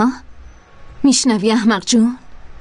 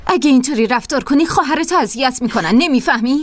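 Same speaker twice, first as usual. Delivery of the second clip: raised, higher berating voice; angry scolding; 4 semitones higher than usual. Acted. Captor scolds the girl, angrily raised voice. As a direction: tear into her.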